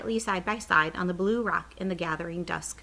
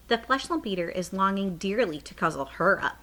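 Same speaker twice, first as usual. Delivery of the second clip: smiling a little. Acted. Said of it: "smiling a little now".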